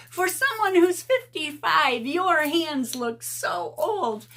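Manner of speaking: high, slow sneer, stretching every word; mocking snooty commenter. Vlogger mimicking the commenter's insult, high and sneering. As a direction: lay the insult on thick in a catty voice. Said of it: "no, she said".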